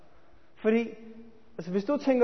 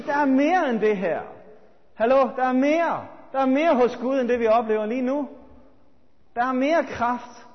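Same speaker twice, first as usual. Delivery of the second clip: loud, insistent and hungry for more; fervent loud declaration; 5 dB louder than usual. Retold or imitated. Preacher voicing a restless believer loudly demanding more. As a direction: push each mere with growing conviction. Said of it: "Og samtidig sige".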